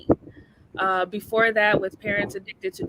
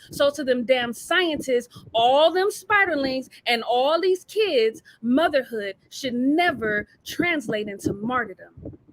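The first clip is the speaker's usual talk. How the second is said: spoken-word poem; 4 semitones higher than usual. Acted. Mother addresses scientists, spiderlings and kids, spoken-word delivery. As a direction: land the poem's last line with conviction.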